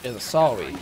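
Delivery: Canadian accent, "sorry" said as "sawwy". Shown as a demonstration. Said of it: "The, the R's become W's a little bit?".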